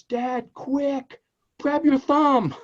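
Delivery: put-on high, loud girl's shout; a daughter calling up at her dad; daughter yelling. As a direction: yell it like a panicked teen girl. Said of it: "and yells".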